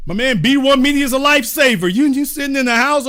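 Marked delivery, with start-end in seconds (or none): none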